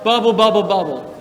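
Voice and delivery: bouncy bubbling, fading at the end; bubbly jellyfish sound. Shown as a demonstration. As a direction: pop the bubbles then let them drift off. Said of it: "Everyone do that?".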